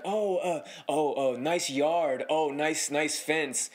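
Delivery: mildly taunting imitation; goading fake praise. Dog owner egging on the homeowner about his yard, mock admiring. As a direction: offer compliments as a dig. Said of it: "trying to egg us on".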